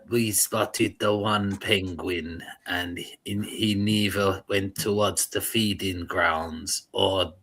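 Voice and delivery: slow, measured nature-documentary narrator impression; Hans Cleanser. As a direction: lightly mimic a solemn documentary narrator. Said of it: "he talks like this".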